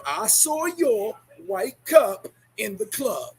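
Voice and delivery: slow, drawn-out mock accusation; slow accusing drawl. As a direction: drag it out like you caught them. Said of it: "They'll be like".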